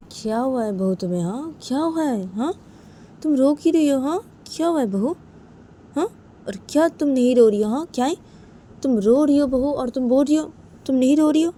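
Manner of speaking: high, loud, swooping questions; insistent aunt. Acted. Aunt challenges daughter-in-law's denial of crying, insistent high-pitched questioning. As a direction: press her hard, pitch soaring. Aunt presses Uma, voice raised.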